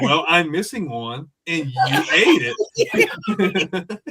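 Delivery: slow, deliberate accusation, imitated; drawn-out, pointed mock charge; mock interrogation. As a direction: build the case slowly like a comic interrogator. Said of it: "it was like an interrogation".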